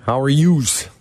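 a hint of a Chicago Italian accent on "How are yous?"; light Italian accent. Host echoes the caller's greeting in a light Italian accent. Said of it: "You like that Italian accent".

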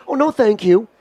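light, polite brush-off; pleasant refusal. Shown as a demonstration. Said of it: "your tone begins with".

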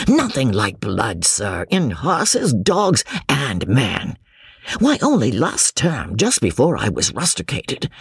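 lightly voiced tipsy boaster, chuckling at a slip; tipsy young James. Young man bragging about a friend's fight, lightly tipsy. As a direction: hold forth merrily over the port. Tipsy cousin tells anecdote.

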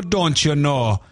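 lilting Minnesotan catchphrase; Minnesota accent. Acted. Quoting how Minnesotans talk to listeners, Minnesota accent. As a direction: quote it like a true Minnesotan. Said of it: "the way people say".

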